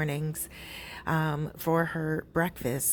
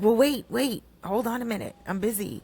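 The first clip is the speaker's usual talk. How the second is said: higher-pitched husband putting her off; mock protest; 6 semitones higher than usual. Husband stalling his wife out front, protesting.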